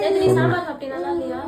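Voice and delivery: tearful, voice catching on the words; real crying while defending her sambar. Real, not acted. Wife defends her sambar to husband, crying. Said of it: "திருப்பி இதுக்கே அழுவுற".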